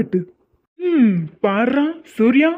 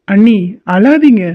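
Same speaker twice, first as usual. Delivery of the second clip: put-on a child's slow plea; 4 dB louder, slower than usual. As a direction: coax gently like a small kid. Another child consoling aunt.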